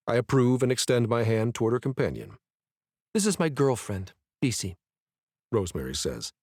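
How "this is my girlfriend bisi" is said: put-on girlfriend pressed hard, a touch defensive; stress on girlfriend. A narrator's reading. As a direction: lean on the word girlfriend as if daring a reaction. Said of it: "with heavy emphasis on girlfriend".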